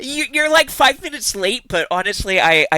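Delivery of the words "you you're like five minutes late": high teasing scold; light playful reproach; mock scolding. Real, not acted. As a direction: pretend to scold the latecomer. Teasing a latecomer.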